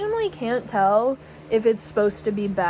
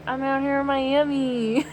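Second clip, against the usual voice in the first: lightly bored lyric, half-hearted; uninterested imitation; 3 semitones higher than usual. Vlogger mimicking the rapper's bored Miami line. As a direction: toss off the line with no interest. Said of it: "She sounds exactly like that".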